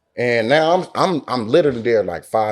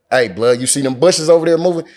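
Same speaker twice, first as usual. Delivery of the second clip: higher, quicker heads-up; retold urgent question, pitch climbing; retold urgent alert; 3 semitones higher, 4 dB louder than usual. Warning his companion about moving bushes, retold urgent alert.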